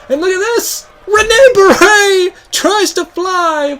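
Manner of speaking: loud, high, stretched-out commentary; wrestling announcer erupting at a big move; excited shouted call. Real, not acted. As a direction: build to a shout for the big dive. Commentator calls a high dive.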